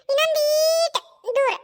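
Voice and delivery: ಈಟು stretched long; drawn-out coaxing. Acted. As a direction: coax slowly, dragging out the vowel of ಈಟು. Child urging elder to step farther.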